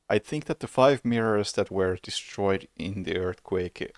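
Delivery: through a yawn; words stretched by a yawn. Real, not acted. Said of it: "sorry, I'm yawning so much".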